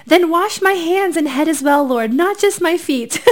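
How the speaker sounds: an over-eager Peter; exclaiming. A narrator's reading. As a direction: gush it out all in. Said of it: "So Simon Peter exclaimed".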